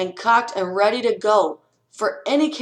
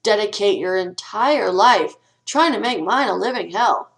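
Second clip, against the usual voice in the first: sarcastic thanks; 4 dB louder than usual. Pretend. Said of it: "You just say".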